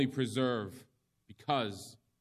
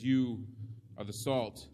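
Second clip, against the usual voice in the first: an emphatic "You" for the followers; stress on you; slower than usual. Shown as a demonstration. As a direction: punch "You", then drop into "are the salt". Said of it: "The "you" is emphatic".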